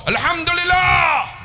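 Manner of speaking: high, slow, loud call; leading zikir. Retold or imitated. Guide starting the second round, loud call. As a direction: call ALHAMDULILLAH out long and high. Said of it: "Round kedua".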